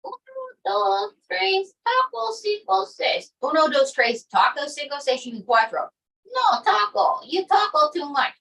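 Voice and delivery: put-on high comic Spanish accent counting; mock Spanish accent. Caller counting to ten in a hammed-up Spanish accent. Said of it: "count to ten in your accent".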